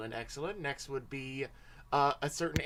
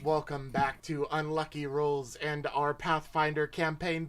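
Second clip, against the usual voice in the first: show host welcome. Acted. Host opens the stream.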